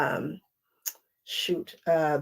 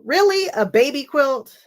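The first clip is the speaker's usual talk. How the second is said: high, louder disbelieving question; mock indignation; 6 semitones higher, 4 dB louder than usual. Real, not acted. Scoffing at her husband calling it a baby quilt, high and indignant. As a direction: play it like you can't believe he said that.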